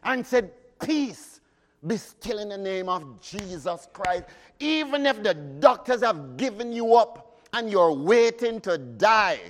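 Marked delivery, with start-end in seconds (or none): 0.8-4.3 congregation's declaration. Shown as a demonstration. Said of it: "I want you to stand up and say".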